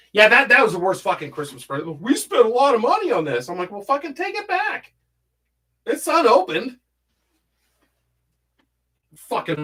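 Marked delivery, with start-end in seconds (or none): 2.0-3.5 mocking, high-pitched imitation; complaining gift-givers. Relatives complaining about money spent on gift, mockingly imitated. 3.7-6.8 acted exasperation, pitched way up; exasperated comeback. Retelling his retort to the gift-givers, exasperated.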